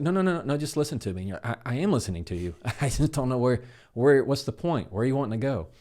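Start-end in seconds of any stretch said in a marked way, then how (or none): 0.0-1.2 high, loud exasperated no no no. Retold or imitated. Friend interrupting a fixer, exasperated and loud. Frustrated person cutting off listener. 1.4-5.7 high, loud flustered pleading with a laugh. Retold or imitated. Listener who tries to fix, flustered and pleading. Fixer defending himself, flustered.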